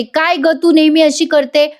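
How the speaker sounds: lightly acted scolding; mild mock yell. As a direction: scold her with pitch up, volume ordinary. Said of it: "आता रम्या पण ओरडते".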